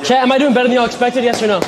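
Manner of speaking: punchy call-out between rounds; calling out to chat. Real, not acted. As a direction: shout it across the room to viewers. Streamer calls out to chat mid-workout.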